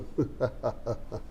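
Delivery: soft acted laugh in a mythological-hero style; theatrical laugh. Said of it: "Ramarao గారిని imitate చేయడమే". (నాటకీయమైన నవ్వు)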